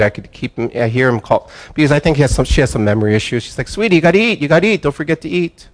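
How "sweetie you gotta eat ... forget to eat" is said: fussing wife. Retold or imitated. Wife coaxing husband to eat.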